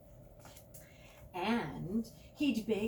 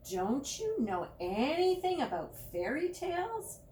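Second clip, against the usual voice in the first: scolding; 7 semitones higher, 5 dB louder than usual. Acted. Judy scolding William.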